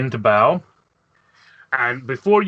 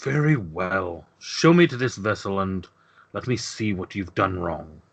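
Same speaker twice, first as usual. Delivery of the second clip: sighing reluctant consent; 4 semitones lower than usual. Acted. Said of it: "and he sighs".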